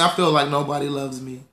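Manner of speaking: mock self-pity. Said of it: "I'm just teasing".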